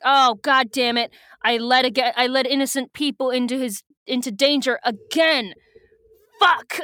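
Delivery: hammed-up dismay; exasperated. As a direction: act out a frustrated outburst that builds to a curse. Retelling character's exasperated outburst.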